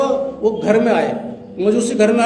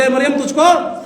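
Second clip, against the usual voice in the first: a little louder, rising on तुझको; said loudly; 4 semitones higher than usual. Shown as a demonstration. Preacher asks the church to say it loud, loud call. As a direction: call out "ए मरियम तुझको" with force. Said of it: "जोर से बोले".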